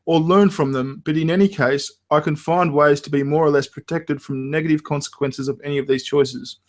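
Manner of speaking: reading a text aloud. Shown as a demonstration. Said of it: "sighs, let's unpack that".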